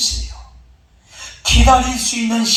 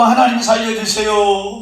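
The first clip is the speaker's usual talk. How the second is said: prayer cry; 2 semitones higher than usual. Acted. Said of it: "기도하니까".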